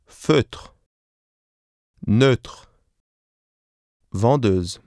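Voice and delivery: feutre, Neutre, Vendeuse with the close rounded eu vowel; rounded lips. Shown as a demonstration. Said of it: "Listen and repeat".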